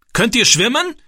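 high, loud shouted question; bellowed question. A narrator's reading. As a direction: shout it across the water. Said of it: "brüllte der Mann".

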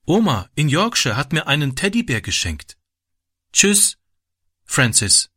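put-on high-pitched small child; little girl. A narrator's reading. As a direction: pipe up like a little sister. Small girl Debbie chimes in.

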